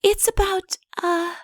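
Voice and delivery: high, light princess voice. Acted. Princess musing aloud to Udo. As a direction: lift the voice up for the young princess.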